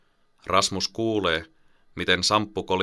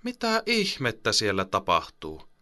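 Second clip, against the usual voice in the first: exasperated; 3 semitones higher than usual. Acted. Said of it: "äiti kysyy tuskastuneella äänellä".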